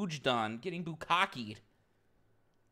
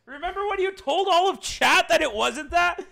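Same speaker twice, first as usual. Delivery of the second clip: much higher and louder accusation; indignant yell; 12 semitones higher, 9 dB louder than usual. Real, not acted. Streamer yelling at Trauma over a wrong claim, loud. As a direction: call her out hard. Heated teasing argument.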